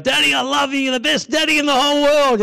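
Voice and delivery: put-on high sweet child gushing love; little girl voice. Daughter hugging her daddy, high gushing child voice. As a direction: gush like an adoring little daughter.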